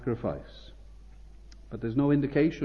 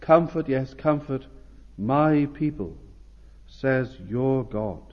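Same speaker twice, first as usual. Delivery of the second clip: tender. Acted. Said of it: "notice also how tender and how intimate".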